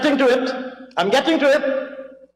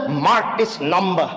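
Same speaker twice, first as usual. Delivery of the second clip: slow, mock-solemn announcement; a hint of pompous weight on each word; mock gravitas; 3 semitones lower than usual. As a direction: lightly imitate her feigned gravitas. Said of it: "feigned gravitas".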